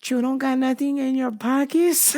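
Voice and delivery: put-on Latina agent accent. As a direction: imitate a Latina officer checking. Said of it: "She's like".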